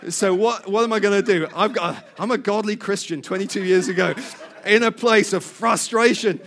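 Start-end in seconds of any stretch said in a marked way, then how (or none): 0.1-1.5 laughing anger. Real, not acted. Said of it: "now my blood's boiling".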